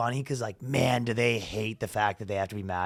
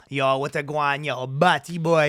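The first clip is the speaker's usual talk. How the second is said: street slang patter, drawn out at the end; lightly voiced hood dude; 2 semitones higher, slower than usual. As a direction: play the hood friend greeting his boys. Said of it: "every dude that's kinda hood".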